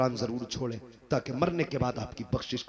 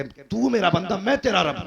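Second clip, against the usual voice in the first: a touch higher, gushing with joy; mock overjoyed slip; 4 semitones higher, 5 dB louder than usual. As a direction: blurt it out as if giddy with joy. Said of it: "मगर खुशी में ऐसा भूल गया".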